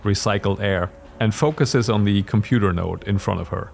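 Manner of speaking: measured storyteller narration; story narration. A narrator's reading. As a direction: narrate the scene steadily.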